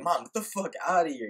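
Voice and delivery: loud, high-pitched playful protest; good-natured mock outburst. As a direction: shoo mom away in mock exasperation. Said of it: "out of all good fun".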